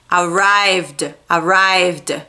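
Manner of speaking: arrived in two syllables, "a-RAIVD"; voiced D ending. Shown as a demonstration. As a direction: say arrived with a D straight after the V. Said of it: "Você vai pronunciar o D".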